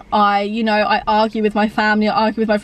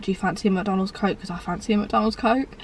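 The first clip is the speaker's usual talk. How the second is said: lazy mumble; 5 dB quieter than usual. Retold or imitated. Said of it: "we'd be like".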